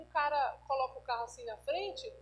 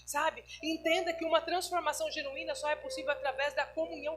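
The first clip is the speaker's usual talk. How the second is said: louder, emphatic sermon delivery; preaching; 4 dB louder than usual. Acted. Pastor urging the congregation, emphatic preaching. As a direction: drive the exhortation home to the church.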